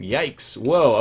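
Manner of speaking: loud startled whoa, then settling. Real, not acted. Player hit by a trap, startled loud whoa. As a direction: jump at the sudden hit.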